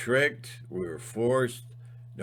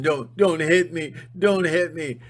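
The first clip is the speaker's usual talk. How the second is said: lightly voiced pleading weakling, higher; mock whimpering victim; 6 semitones higher, 7 dB louder than usual. The speaker mocking a scared kid, higher whiny plea. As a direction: imitate a cowering kid begging.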